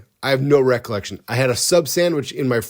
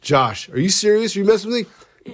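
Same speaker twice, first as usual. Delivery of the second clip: much higher, incredulous mother; disbelieving mom; 8 semitones higher than usual. Retold or imitated. Mom asking if son is serious, high incredulous voice. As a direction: ask like you can't believe it.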